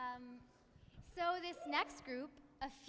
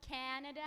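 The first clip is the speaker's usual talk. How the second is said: "Canada" with the weight on "CAN"; "Canada" stressed on its first syllable. Shown as a demonstration. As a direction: hit "CAN" and let "ada" fall. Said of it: "with the emphasis on the first syllable".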